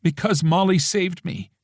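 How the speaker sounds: soft. Acted. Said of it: "Her voice is soft".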